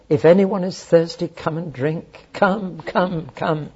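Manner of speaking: slow, earnest call to come; pleading invitation. Retold or imitated. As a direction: plead gently with the thirsty.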